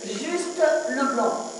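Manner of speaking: slow, spaced-out "juste Leblanc"; stress on juste. Shown as a demonstration. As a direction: lean on "juste", said slowly. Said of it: "je viens de vous dire".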